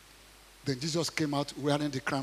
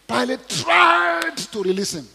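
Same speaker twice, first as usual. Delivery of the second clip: dramatic narration; 9 semitones higher, 10 dB louder, slower than usual. A narrator's reading.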